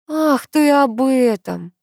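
slow, sighing realization. A narrator's reading. Grandmother remembering the wedding plans, with a slow sigh. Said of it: "вздохнула бабуля".

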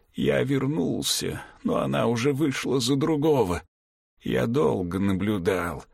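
a weak, tender dying confession; dying father, weak and remorseful. Acted.

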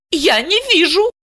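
high, mock-innocent sneer; venomous. Asya mocking the boss, venomous. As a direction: say it with poison. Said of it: "ядовито сообщила".

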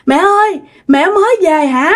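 put-on high-pitched child's cry for mother; acted wail, pitched well up; tearful calling out. A narrator's reading. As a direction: call out to mom, overcome with longing. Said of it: "ông nội đã òa khóc lên và ông nội mới kêu".

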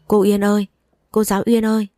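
lightly voiced child calling out. Child calling teacher through wall.

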